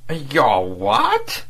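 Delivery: guttural Central Asian tones. A narrator's reading. Diplomat interrupting his agent in a guttural Central Asian accent. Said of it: "guttural Central Asian tones".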